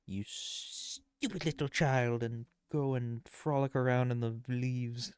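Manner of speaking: mock lecturing voice. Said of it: "Says the message is".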